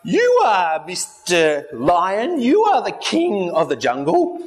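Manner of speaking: slow, a touch scared monkey; drawn-out answer from a cowering monkey; lightly voiced frightened monkey answering the lion; mild trembling. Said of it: "he's shivering at his boots".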